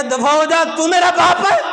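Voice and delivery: harsh rising shout from the son; angry son. Acted. Son throwing out his ailing father, angry shout. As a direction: bark it at the old father.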